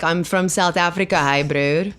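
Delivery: mock thick South African accent, hammed up; lightly mock the one-dimensional South African take; over-the-top South African. Mocking actors' cartoon South African accent to the host. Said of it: "this, like, over-the-top thing".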